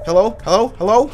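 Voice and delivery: quick, loud, rising hellos; calling out. Real, not acted. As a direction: call out for anyone there, high and loud. Calling out into empty room.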